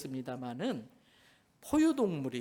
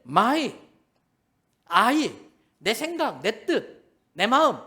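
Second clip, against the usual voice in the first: louder, slow, each word hammered; forceful sermon list; emphatic preaching; 4 semitones higher, 8 dB louder, much slower than usual. Real, not acted. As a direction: list them like blows from the pulpit.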